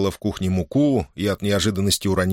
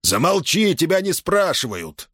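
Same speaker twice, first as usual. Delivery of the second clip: higher, curt snap; snapping; 8 semitones higher than usual. Acted. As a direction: cut her off sharply. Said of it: "огрызнулся на неё купец".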